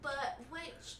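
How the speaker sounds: soft, hesitant nerd voice. Acted. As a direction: play a timid, fussy nerd. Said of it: "that's your nerd voice for me".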